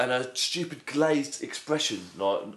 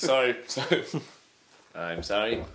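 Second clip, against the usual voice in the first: mock Bush apology; 3 semitones lower than usual. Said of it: "Bush was like".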